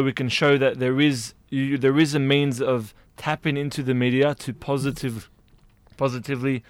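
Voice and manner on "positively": choking while talking; words strained by choking. Real, not acted. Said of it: "Sorry, I'm choking".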